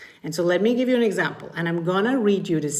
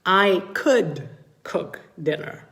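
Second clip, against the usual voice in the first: slow, musing could; slower than usual. Shown as a demonstration. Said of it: "let me give you another thought".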